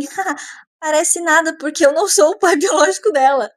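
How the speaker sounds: light laugh. Retold or imitated. Andrew laughing it off.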